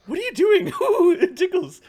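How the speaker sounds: high squealing giggle; ticklish giggling. Acted. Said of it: "says Ptolemy".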